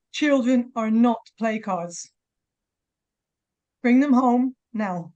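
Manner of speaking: slow, firm and sincere; a mother's slow earnest appeal; earnest plea. Real, not acted. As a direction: plead slowly for their return. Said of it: "closing plea to the audience".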